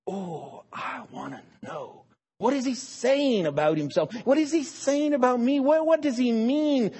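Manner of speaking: hungry to understand; eager wonder. Pretend. Humble listener eagerly asking what God means. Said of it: "And when God talks".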